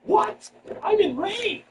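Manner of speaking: high-pitched mock indignation; mock outrage. Comic imagines heads reacting to the news, mock outraged. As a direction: act out outraged listeners in a high voice. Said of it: "I see heads going".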